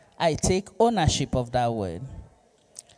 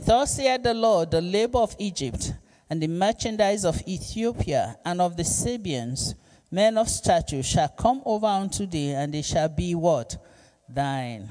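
scripture reading. Acted. Reads scripture verse aloud.

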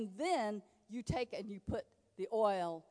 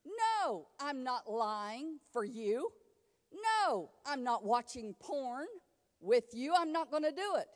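firm refusal demo. Shown as a demonstration. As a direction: model how to refuse.

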